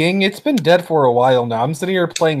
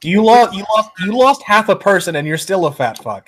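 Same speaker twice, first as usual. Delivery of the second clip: laughing insult; 6 semitones higher, 3 dB louder than usual. Real, not acted. Roasting friend, laughing.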